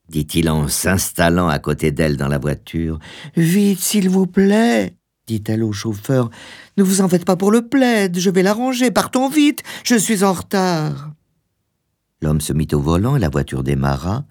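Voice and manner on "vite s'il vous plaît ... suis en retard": very high-pitched fretful woman's voice; high, urgent pleading; anxious hurried wife. Acted. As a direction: play the wife desperate to leave, pitched far up. Woman hurrying the chauffeur.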